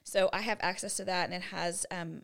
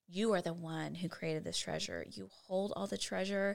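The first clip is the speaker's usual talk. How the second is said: quiet prayer. Shown as a demonstration. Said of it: "we just stop before him and we say".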